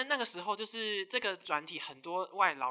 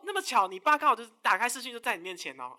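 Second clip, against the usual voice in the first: sarcastic; 4 semitones higher, 8 dB louder than usual. Retold or imitated. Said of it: "我说".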